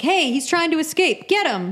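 lightly acted cop raising the alarm; imagined cop's alarm. Imagining a cop catching an escapee, mock alarm. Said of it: "you hear the cop go like".

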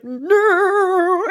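high, drawn-out whiny no; hammed-up dread in one long word; mock protest. Retelling his refusal of the mirror house, mock protest.

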